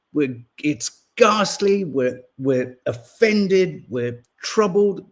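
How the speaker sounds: slow, mock-weighty emphasis on each word; lightly hammed-up grave statesman; mock emphatic Lammy. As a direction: send up a politician's solemn emphasis. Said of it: "incredibly emphatic fashion".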